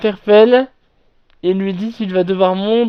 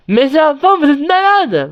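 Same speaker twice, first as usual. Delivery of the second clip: higher, louder scolding shout; angry scolding; 8 semitones higher, 4 dB louder than usual. Retold or imitated. Camp counsellor yelling at screaming girls, outraged. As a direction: tell them off, outraged. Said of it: "notre mono".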